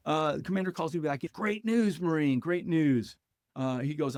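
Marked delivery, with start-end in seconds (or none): 1.3-3.1 imitated upbeat announcement. Commander calling the Marine back in, imitated upbeat announcement. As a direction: sell it as good news, pitch lifted at the start. Commander delivers supposedly great news.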